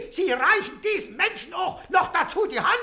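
outraged half-laughing shout; empörter Ausruf; indignant shout. Acted. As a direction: throw the accusation at him. Krüger accuses the official angrily.

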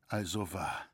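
as if the truth just hit him; shaken stammer. A narrator's reading. Roritzer realising he is betrayed, shaken stammer. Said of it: "stammelte Roritzer erschüttert".

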